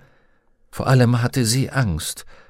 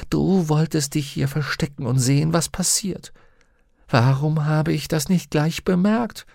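higher-pitched companion, mildly accusing; a higher, mildly reproachful character voice; lightly voiced Pantaleimon, reproachful daemon; 7 semitones higher than usual. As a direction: lightly voice a daemon catching someone out.

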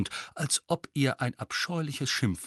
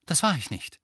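Harry; 6 semitones higher than usual. A narrator's reading. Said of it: "nicht mehr ganz so gelassen".

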